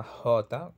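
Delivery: J said "hota", with an English-style h; Caribbean J. Shown as a demonstration. Teacher describing Caribbean dialect, J aspirated like English H. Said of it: "una H inglesa".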